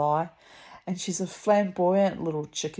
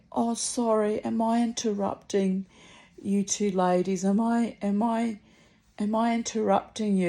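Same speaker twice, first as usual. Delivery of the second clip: lightly imitated young man, higher voice; higher-pitched mock apology from a young man; apologetic young man; 5 semitones higher than usual. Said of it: "this young man walks up the street".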